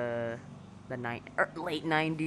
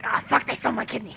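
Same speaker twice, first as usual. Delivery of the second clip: quick, lightly gruff outburst; lightly voiced alarmed character; Charlie the Unicorn; 3 dB louder, faster than usual. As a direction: blurt it like a grumpy cartoon unicorn. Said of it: "he's like".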